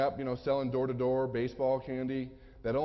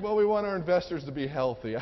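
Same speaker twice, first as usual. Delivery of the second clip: louder, laughing through the cover-up; laughing excuse; 3 semitones higher, 6 dB louder than usual. Retold or imitated. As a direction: bluff it out while laughing. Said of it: "I'm like".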